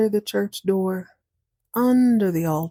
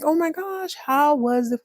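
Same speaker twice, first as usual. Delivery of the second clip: eager mouse; 8 semitones higher than usual. Acted. Mouse greets returning cat eagerly.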